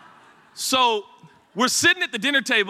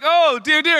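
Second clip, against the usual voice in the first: higher, louder mock-Irish exclamation; hammed-up Irish woman, pitched up; attempted Irish accent; 7 semitones higher, 6 dB louder than usual. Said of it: "like, my Irish accent".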